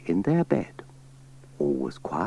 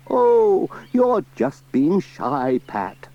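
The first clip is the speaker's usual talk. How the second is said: vicar voice; 8 semitones higher, 5 dB louder, slower than usual. Acted. Vicar coaxing Pat.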